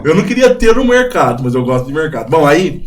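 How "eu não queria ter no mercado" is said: laughing while saying it, higher and louder. Real, not acted. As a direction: let the laugh carry the words. Rindo ao falar do mercado.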